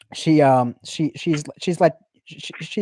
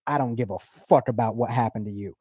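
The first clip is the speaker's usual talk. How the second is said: mock pimp; 4 semitones lower, 4 dB quieter than usual. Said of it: "he's like".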